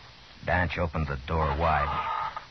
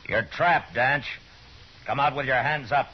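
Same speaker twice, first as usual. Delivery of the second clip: calling out; 8 semitones higher than usual. Acted. Marshal calls Danch out of hut.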